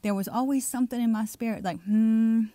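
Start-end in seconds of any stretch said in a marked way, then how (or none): 1.8-2.5 long, louder doubtful hum. Retold or imitated. Preacher recalls sensing something not quite right, doubtful. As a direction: hum it out with suspicion. Voicing his doubt at convincing healers.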